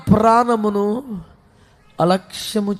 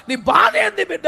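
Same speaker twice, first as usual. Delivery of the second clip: mother's cry; 10 semitones higher than usual. Acted. Mother asking her child.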